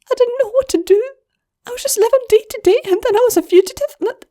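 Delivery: high, fast, tearful babbling filly; Wire's voice. Acted. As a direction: tumble the words out. Wire pours out her story.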